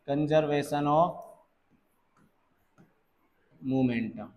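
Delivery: "conservation of momentum" spelled out word by word, very slowly, with long pauses between; slow and deliberate. Shown as a demonstration. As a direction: dictate "conservation of momentum" slowly so students can write it down. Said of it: "conservation of momentum से solve क्या बोलते हैं हम". ("conservation of momentum" बहुत धीरे, हर शब्द अलग-अलग)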